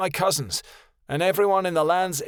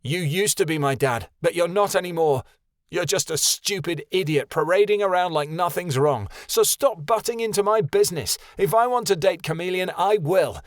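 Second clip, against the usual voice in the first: higher, louder defiant rant; furious tirade; 8 semitones higher, 4 dB louder than usual. A narrator's reading. Son raging at his father to leave him alone. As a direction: throw every line back at him.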